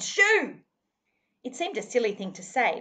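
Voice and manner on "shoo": high, loud scream to drive off dogs; a frightened girl screaming at the dingoes. A narrator's reading. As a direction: shriek it at the dingoes. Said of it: "she screamed".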